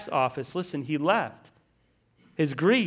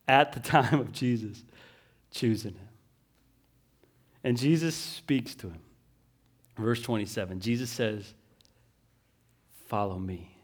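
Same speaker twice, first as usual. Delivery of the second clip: hushed retelling; 10 semitones lower, 9 dB quieter than usual. Acted. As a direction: draw them in almost whispering. Quiet dramatic retelling.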